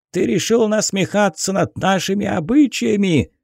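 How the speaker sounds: high, angry yell. Acted. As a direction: yell the accusation at him. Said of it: "заорал мужик". (гневный крик)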